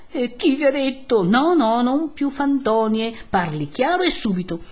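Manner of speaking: loud, high, impatient outburst; heated demand. Acted. Renzo refusing the curate's excuses, heated demand. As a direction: cut off the excuses forcefully.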